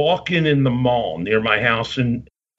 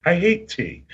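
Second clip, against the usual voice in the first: Lord Alfred Hayes; 6 semitones higher than usual. Retold or imitated. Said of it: "And he goes".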